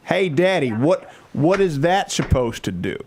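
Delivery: put-on high, childlike voice asking daddy questions; little daughter voice. Father imitating his nine-year-old daughter asking daddy, high childish voice. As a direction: play a curious nine-year-old girl tugging at daddy. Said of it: "questions I want to have to answer my nine-year-old daughter".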